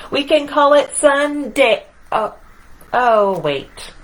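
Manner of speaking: lively picture-book read-aloud as the boastful sun; reading to children. A narrator's reading. Reader voicing the proud sun for children, playful storytelling. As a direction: read it to the kids, playing up the sun's swagger.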